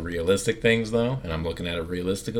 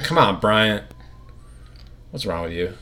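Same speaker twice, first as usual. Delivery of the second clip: exasperated protest; 3 semitones higher, 6 dB louder than usual. Retold or imitated. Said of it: "I'd be like".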